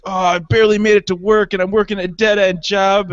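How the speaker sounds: tired worker voice for a beat-up toy; weary toy car. Retold or imitated. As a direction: sigh it out like a worn-down commuter. Voicing his shabby toy car.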